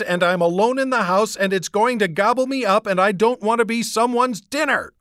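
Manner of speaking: put-on girl gabbling in fear about a monster; panicked rush. A narrator's reading. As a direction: babble it out in terror.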